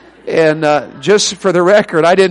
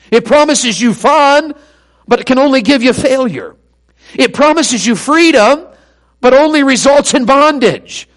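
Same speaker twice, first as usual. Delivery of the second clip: measured contrasts building in pitch and force; preaching; 5 semitones higher than usual. Real, not acted. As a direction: ring out each promise, then its cost. Preaches in rising parallel phrases.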